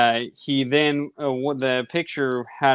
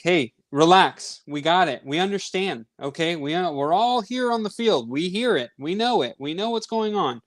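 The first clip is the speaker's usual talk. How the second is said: higher-pitched exasperated scolding; exasperated, raised-pitch reprimand to the other team; fed-up telling off; 5 semitones higher than usual. Retold or imitated. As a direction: tell them to calm down, pitched up and fed up. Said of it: "we finally get fed up with it".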